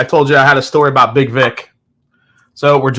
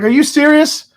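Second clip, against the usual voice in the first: stunned disbelief; 13 semitones higher than usual. Retold or imitated. Stunned reaction to winning lottery.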